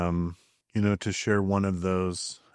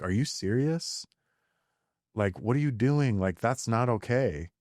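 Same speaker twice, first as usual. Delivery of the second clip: put-on sharp, higher exasperated scolding of a child; mock the harsh reaction he used to have; scolding parent; 4 semitones higher than usual. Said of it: "the way I would normally respond to that".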